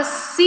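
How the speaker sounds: "ciências" stretched out in separate syllables. Shown as a demonstration. Teacher forming the word for children, syllable by syllable. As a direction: sound out "ciências" slowly, drawing each part.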